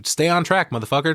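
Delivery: a touch of irritated snapping; mock angry snap. Allie snapping at Jay to stay on business, mock annoyed.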